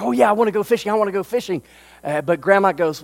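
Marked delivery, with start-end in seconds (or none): 0.0-1.6 put-on high, eager kid voice; eager boy. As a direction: jump at the chance like an excited little boy. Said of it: "Johnny's like".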